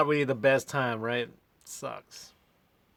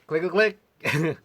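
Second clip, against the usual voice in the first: imitated clicking; 2 semitones higher, slower than usual. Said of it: "attach my battery to your car".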